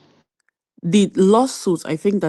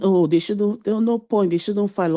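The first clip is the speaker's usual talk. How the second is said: dismissive imitation; 4 semitones higher than usual. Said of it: "But just saying".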